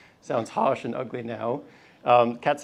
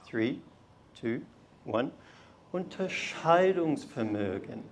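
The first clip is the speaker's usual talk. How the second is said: soft, slow, sweet and melodious; gentle sing-song German; sweet melodious tones; 4 dB quieter, slower than usual. Shown as a demonstration. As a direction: say it sweetly, like a lullaby. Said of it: "in our best pronunciation and sweetest melodious tones".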